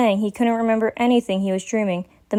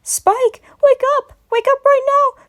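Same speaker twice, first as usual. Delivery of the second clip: higher, louder demand to wake up; desperate shout; 5 dB louder than usual. Acted. Twilight shouting at Spike to wake up, desperate and loud. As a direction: yell him awake, desperate. Twilight shakes him harder.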